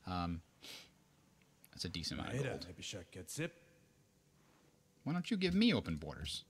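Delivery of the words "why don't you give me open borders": high, pleading question; high mock plea. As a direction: whine it like begging a favor.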